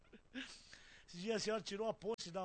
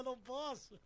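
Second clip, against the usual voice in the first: higher-pitched acted reply; retold refusal; 4 semitones higher than usual. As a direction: call back in a raised pitch. Answering those calling after him.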